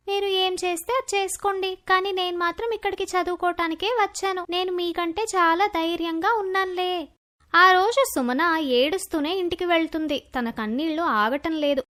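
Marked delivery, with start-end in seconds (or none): 0.1-7.1 lightly voiced girl standing her ground; a slightly raised girl's voice, composed and confident; self-assured schoolgirl. Sumana defies the bullies.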